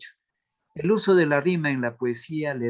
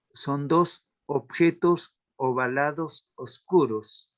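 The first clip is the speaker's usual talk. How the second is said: slowed explanation; slower than usual. Shown as a demonstration. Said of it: "otro ejemplo".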